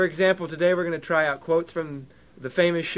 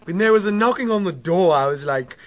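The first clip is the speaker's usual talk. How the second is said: British accent slipping into cartoon voice; lightly hammed-up British politician gone wrong; mock British, badly drifting; Stewie Griffin; 3 dB louder than usual. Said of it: "That morphed really bad into Stewie Griffin".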